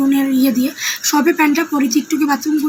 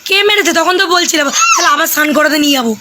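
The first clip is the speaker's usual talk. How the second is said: put-on coaxing a child; 3 semitones higher than usual. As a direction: playfully quiz the child, bright and coaxing. Keeps quizzing child on camera.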